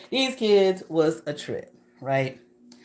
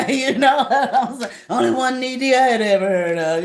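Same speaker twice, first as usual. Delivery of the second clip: laughing through the words, louder; giggling while telling it; 7 semitones higher, 7 dB louder than usual. Real, not acted. Telling viewers about the ED room, laughing.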